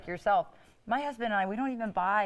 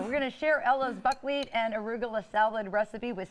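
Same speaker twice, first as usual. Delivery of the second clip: speaking around a bite of food; mouth full. Real, not acted. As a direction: talk while still chewing. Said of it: "I'm gonna talk with my mouth full here".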